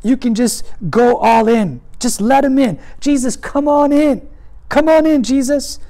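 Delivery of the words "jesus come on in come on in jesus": eager invitation. Shown as a demonstration. Sinner invites Jesus in.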